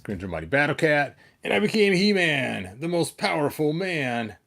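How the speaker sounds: He-Man heroic recitation. Pretend. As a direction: declaim it like the cartoon's opening. Reciting He-Man's transformation speech.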